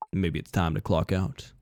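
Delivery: low, hushed, ominous stranger; creepy stranger. Acted. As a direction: speak low and knowingly, like a haunting. Eerie stranger closes.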